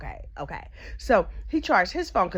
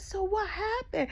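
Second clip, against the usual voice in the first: hushed eager question; 11 semitones higher, 6 dB quieter, slower than usual. Retold or imitated. Eager gossip asking.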